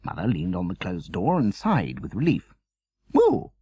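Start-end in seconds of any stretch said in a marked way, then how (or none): 3.1-3.5 disappointed. A narrator's reading. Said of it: "in disappointment".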